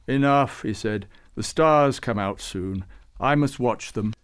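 lightly voiced saint eager to watch the stars; Babucar. Babucar cuts the talk short.

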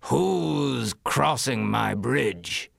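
slow, menacing troll. Acted. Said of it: "he rushed up onto the bridge and said".

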